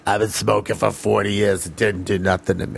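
a hint of gravelly throat-cancer growl; gravelly smoker voice. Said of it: "throat cancer Batman?".

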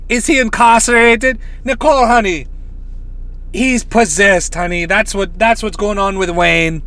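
badly faked psychic accent; lightly put-on, awful psychic accent; Miss Cleo. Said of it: "awful accent".

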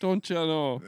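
a folksy Canadian "Don't ya know"; lightly Canadian, a touch Midwest; Canadian accent. Retold or imitated. Finishing his Canadian bit for friends, mild Canadian accent. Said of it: "a killer Canadian impression".

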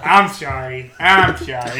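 lightly put-on cartoon apology; a hint of cartoon speech impediment; Elmer Fudd. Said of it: "sound like Elmer Fudd?".

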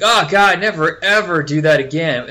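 loud disgusted exclamation; exasperated outburst. Retold or imitated. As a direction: cry out in disgust at a friend. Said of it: "I was like".

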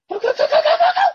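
high squeaky go chant; echoing the cartoon panic playfully; mock urging. Friend echoing the hero's frantic go chant.

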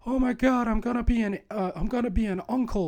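mock excitement. Co-host acts the best friend overjoyed in a skit, high mock-excited voice.

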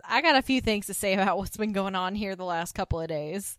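loud scolding tirade; bossy loud rant. Retold or imitated. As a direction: raise the voice, scold them all. Voicing Suzanne's tirade.

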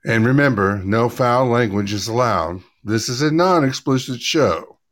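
lightly put-on cabin announcement voice; flight attendant voice. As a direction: read it like a polite in-flight announcement. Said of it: "Did you like the flight attendant voice?".

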